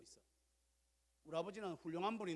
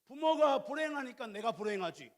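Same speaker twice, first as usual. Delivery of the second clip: louder, higher mock complaint; a hint of a child blaming parents; a touch of a whining child; 6 semitones higher, 11 dB louder than usual. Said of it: "자식들은 이렇게 해요". (자녀가 부모 탓하는 흉내, 높고 큰 소리로)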